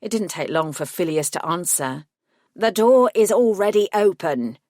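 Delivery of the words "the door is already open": a curt, annoyed solicitor over the intercom; lightly voiced irritation, higher and louder; irritated intercom voice. A narrator's reading. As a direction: gremlin lawyer answering the buzzer with a hint of irritation. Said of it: "His disembodied voice sounded irritated".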